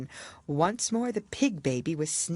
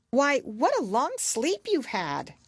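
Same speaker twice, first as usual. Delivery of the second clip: gentle sister; 8 semitones higher than usual. Acted. Sister waking Alice.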